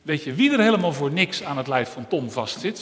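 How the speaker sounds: nasty teasing. Acted. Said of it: "zei het oog met een gemeen lachje".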